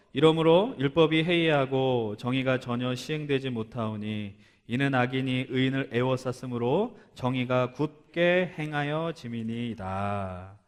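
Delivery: slow, measured Bible reading; scripture reading. Acted. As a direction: read it out solemnly and evenly.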